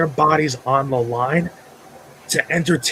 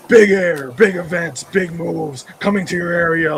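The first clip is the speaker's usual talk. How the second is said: monster truck ad; 3 semitones higher, 4 dB louder than usual. Retold or imitated. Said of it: "the old school monster truck adverts".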